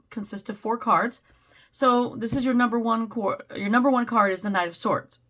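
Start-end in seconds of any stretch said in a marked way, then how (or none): 1.7-5.2 strained, fading voice; losing voice. Real, not acted. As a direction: speak like your voice is going. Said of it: "I feel like I'm losing my voice again".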